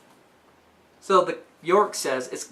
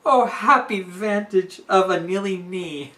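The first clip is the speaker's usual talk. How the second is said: laughing delight; 3 semitones higher, 4 dB louder than usual. Retold or imitated. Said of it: "So she says".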